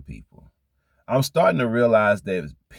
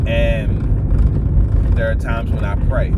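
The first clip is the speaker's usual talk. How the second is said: prayer mode; 4 dB louder, much slower than usual. Shown as a demonstration. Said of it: "My prayer mode is different than my talk mode".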